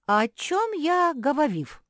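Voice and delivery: loud lecturing professor with r and l swapped for v; speech-impaired professor. A narrator's reading. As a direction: play the muddled academic, v for every r and l. Professor asks, high.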